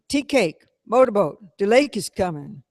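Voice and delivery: alarmed wake-up. A narrator's reading. Janie wakes them in alarm.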